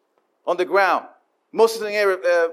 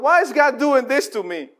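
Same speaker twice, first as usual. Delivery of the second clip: high-pitched griping question; a believer's high, aggrieved whine; whiny complaint; 5 semitones higher than usual. Acted. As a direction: moan it up at God. Complainer voiced, second try.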